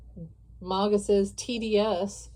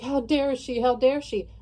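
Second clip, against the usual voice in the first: higher, indignant "How dare she?"; mock outrage; 5 semitones higher, 4 dB louder than usual. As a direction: play the offended viewer sputtering. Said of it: "you're getting really pissed off".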